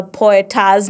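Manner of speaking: "poeters" said fully with an extra syllable, po-e-ters; deliberate coinage poeters. Shown as a demonstration. Host defending her own word for poets, "poeters" drawn out. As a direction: hit each syllable of "poeters". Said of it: "Nimeambiwa ni poets, but mi nitasema poeters".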